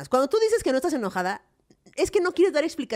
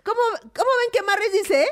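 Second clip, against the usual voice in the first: leading questioner; 8 semitones higher, 3 dB louder than usual. Retold or imitated. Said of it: "Entonces hace".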